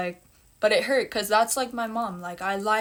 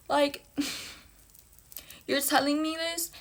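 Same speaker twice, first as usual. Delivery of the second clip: incredulous laugh, pitched higher; laughing disbelief; 6 semitones higher than usual. Real, not acted. Laughing in disbelief at the news she was told. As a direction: laugh it off in shock.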